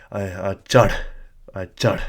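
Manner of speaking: mock out-of-breath climber; pretend tired breathing. Pretending to tell someone you are climbing, mock winded. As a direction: push "chad" out on a puff, as if winded. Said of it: "you're so tired that you're breathing heavily".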